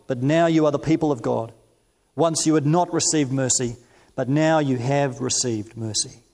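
measured, deliberate Bible reading; scripture reading. Acted. Preacher reading First Peter to the congregation, measured and solemn. Reads scripture aloud in sermon.

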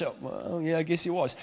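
soft, reluctant admission; playing the caught member, quiet and sheepish; sheepish mumble. Sheepish reply of confronted member.

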